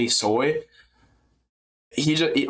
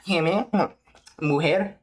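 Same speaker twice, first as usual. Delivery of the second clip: Morales; 6 semitones higher than usual. Retold or imitated. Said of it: "And he just goes".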